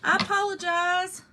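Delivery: high-pitched, flustered mock-tearful apology; taken aback. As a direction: reenact a startled, whimpering apology. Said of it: "I was just taken back".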